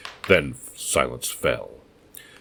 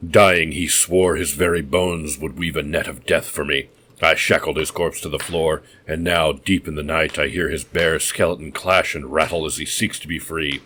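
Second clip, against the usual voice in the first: louder, gloating mad host; gloating madman; 3 dB louder than usual. Acted. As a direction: boast about the chained corpse.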